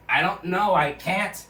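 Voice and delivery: high, loud helpless wail; hammed-up whiny protest. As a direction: cry out that you can't help it.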